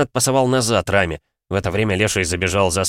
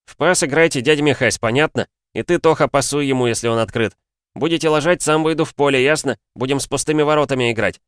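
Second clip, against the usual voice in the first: put-on raised, commanding teen voice; bossy orders; 6 semitones higher than usual. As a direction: lay down the law to teammates. Boy bossing teammates around.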